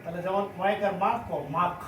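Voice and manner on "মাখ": মাখ ending in a k sound; final k sound. Shown as a demonstration. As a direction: say মাখ, closing on a k. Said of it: "তাহলে উচ্চারণ হবে ক".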